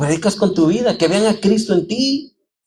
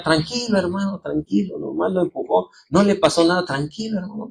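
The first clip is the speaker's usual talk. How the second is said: soft, soothing reassurance; calming a brother; 4 dB quieter than usual. Retold or imitated. Calming an upset brother after a van hit his stall, softly. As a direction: settle him down gently, voice dropping softer. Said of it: "Yo traté de distraer al hermano".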